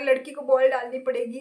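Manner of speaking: mild mock taunt, said as a jibe; lightly voiced cocky bowler sneering at a girl batting. Mimicking the cocky bowler who taunts her, mild mock jibe. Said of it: "वो बहुत ही सुना के बोल रहा है".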